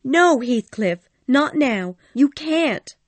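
high, loud, desperate plea; fearful pleading. A narrator's reading. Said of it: "a terrible look of fear".

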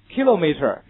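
British "kilometer", stressed on KI with a long o; British English. Shown as a demonstration. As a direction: say KI-lo-meter the British way. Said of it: "kilometer是英式的读法". (英式发音读kilometer，重音在第一音节)

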